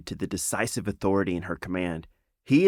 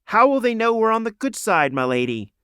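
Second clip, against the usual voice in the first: trembling rat; 13 semitones higher, 4 dB louder than usual. A narrator's reading. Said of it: "trembling rat".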